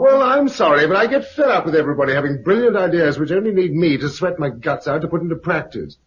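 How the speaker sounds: a quick, rising burst of irritation; fed-up outburst. Acted. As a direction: vent all the frustration at once. Husband snaps at neighbour's ideas.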